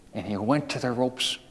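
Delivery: usual speaking voice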